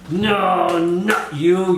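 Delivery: high, drawn-out dismissal; mock searching call. Charlie manhandles men along the row, mock searching call.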